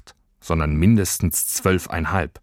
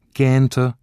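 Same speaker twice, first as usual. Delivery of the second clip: yawning; 6 semitones higher, 5 dB louder than usual. A narrator's reading. Narrator yawns the word.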